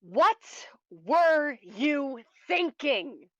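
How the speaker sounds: slow, loud, stretched-out furious question; slow furious repeat. Acted. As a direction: drag out every word in anger. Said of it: "I said".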